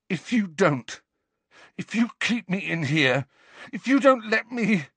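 put-on boy losing control; rising threat. A narrator's reading. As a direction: build to a breaking threat. Harry threatens, rising panic.

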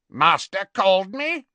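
grudging croak with a bow; croaked Kreacher. Acted. Kreacher bowing to Harry, croaking grudgingly. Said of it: "croaked Kreacher".

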